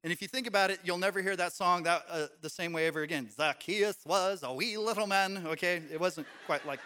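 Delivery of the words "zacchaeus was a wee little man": a slow, badly faked Irish accent; mock Irish lilt, done poorly on purpose; a hint of a hammed-up Irish accent; horrible Irish accent. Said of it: "that was a really horrible Irish accent".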